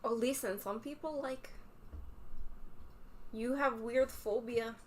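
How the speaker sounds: playful fake Russian accent. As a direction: keep up the silly Russian accent. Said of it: "speak in a ridiculous Russian accent".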